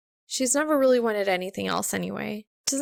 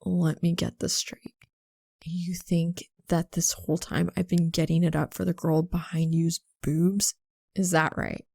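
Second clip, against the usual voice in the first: eerily calm; 4 semitones lower than usual. A narrator's reading. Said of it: "his voice is eerily calm".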